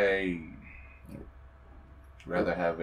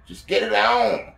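loud, high, drawn-out shout; impatient yell; 12 semitones higher, 7 dB louder, slower than usual. Real, not acted. Player yelling at the game, impatient high shout. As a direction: yell it out, stretching the words.

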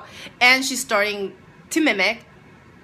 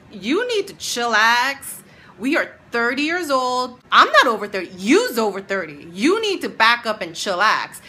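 scolding; 3 semitones higher, 5 dB louder than usual. Retold or imitated. Telling off the classmate.

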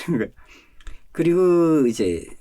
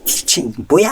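startled; 5 semitones higher, 5 dB louder, slower than usual. Retold or imitated. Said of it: "너무 놀래가지고".

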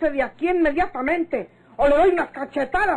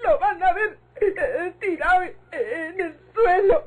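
llorosa contenida. Acted. Victoria llora tras la tragedia.

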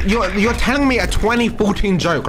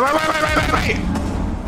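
frantic wait; 13 semitones higher, slower than usual. Real, not acted. Frantic stop to friends.

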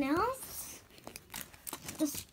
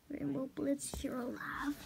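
relieved whisper; 7 dB quieter than usual. Acted. Relieved at finding a friend.

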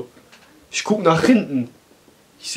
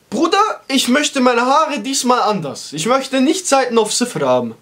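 high timid request; 5 semitones higher than usual. Retold or imitated. Asking the touchy barber for a new cut, high and hesitant. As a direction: tiptoe into the request, pitched up. Nervously asks for new haircut.

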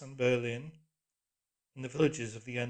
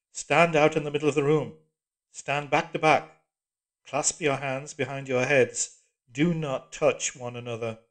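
iron voice; 2 semitones higher, 12 dB louder than usual. A narrator's reading. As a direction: drill each order coldly. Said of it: "the voice".

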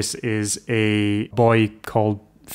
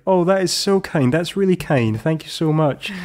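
acted gratitude; 7 semitones higher than usual. Voices grateful student in film retelling.

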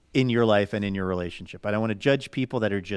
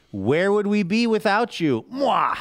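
bright, higher sign-off with a smacked kiss; gushing; 10 semitones higher, slower than usual. Acted. Reading a fan's letter aloud, gushing. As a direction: gush it out and blow a kiss.

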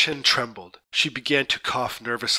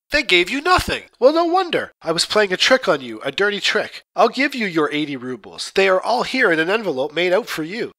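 much higher, louder angry demand; furious shout; 6 semitones higher, 4 dB louder than usual. Acted. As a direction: shout it in fury at her. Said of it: "I was in a furious temper".

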